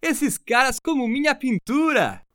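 high-pitched call in Portuguese; shouted to someone. A narrator's reading. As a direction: call out high to a workmate inside. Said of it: "shouted to someone inside the loading dock".

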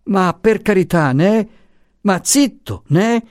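high, frantic hushing 'né?'; wild-eyed pleading. Acted. The professor interjecting his secrets, high and frantic. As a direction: shush her in a panic. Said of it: "facendo degli occhi spiritati".

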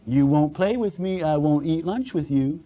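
lightly mocked childish pout; mocking sulky child. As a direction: mimic a petulant kid refusing to play. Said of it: "I'm not mocking any more".

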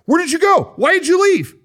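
high-pitched, panicked friend texting questions; frantic high voice. Retold or imitated. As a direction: rattle off worried questions way up high. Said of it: "texts that were like".

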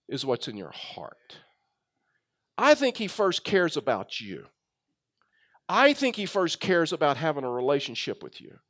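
softened, measured sincerity; acting out a tender pastoral answer; gentle reassurance. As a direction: let it settle quietly, with pauses.

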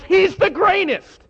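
high, loud stadium holler; hollering fan. Retold or imitated. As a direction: yell it like a fan in the stands. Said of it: "one guy hollers".

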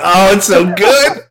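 high, loud, drawn-out rave; thrilled fan relishing every word; gushing delight. Retold or imitated. Relishing the favourite line.

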